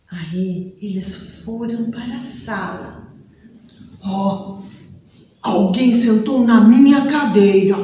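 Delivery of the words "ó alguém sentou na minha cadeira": papa bear. Acted. Papai Urso encontra cadeira.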